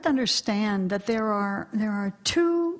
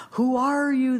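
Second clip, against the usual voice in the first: mysterious divine voice; 3 dB louder than usual. Acted. Divine voice questions the meditator, lightly acted solemn challenge. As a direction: ask as the storyteller's voice of God. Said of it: "The voice comes".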